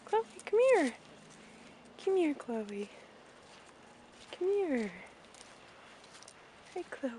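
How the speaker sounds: high call to the pony. Real, not acted. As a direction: sing out her name. Calling the pony over.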